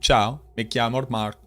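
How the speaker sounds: slow, hammed-up Italian accent on "Ciao, mi chiamo"; stereotypical Italian accent. Shown as a demonstration. Streamer trying Italian for chat, slow stereotypical Italian accent. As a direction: put on a cartoon Italian accent, slowly. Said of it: "a stereotypical Italian accent".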